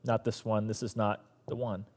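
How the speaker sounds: slow, soft hushed voice of God; God whispering. A narrator's reading. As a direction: say it low and slow, like a secret. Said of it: "God whispers to Samuel".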